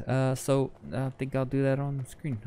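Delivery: talking through a yawn; words stretched by a yawn. Real, not acted. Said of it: "trying to keep from yawning".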